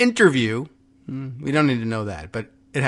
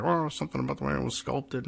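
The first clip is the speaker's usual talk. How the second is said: mock art snob; 11 dB quieter, faster than usual. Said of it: "art world freaks who are like".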